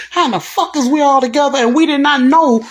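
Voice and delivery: loud, high mock outrage; mad, retold. Man berating his team for keeping him uninformed, retold outburst. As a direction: imitate a man exploding at being left out. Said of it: "What you so mad for".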